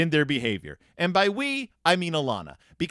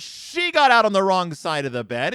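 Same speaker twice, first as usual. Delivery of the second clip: louder retold yell; mock yell; 2 semitones higher, 5 dB louder than usual. Brother yelling at Papa about his sister, mock yell. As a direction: call it out like a tattling brother. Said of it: "Brother yells".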